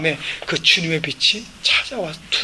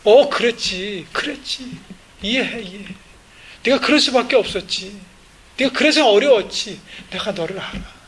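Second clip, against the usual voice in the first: warm voice; 2 semitones higher than usual. Retold or imitated. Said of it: "주님은 따뜻한 음성으로".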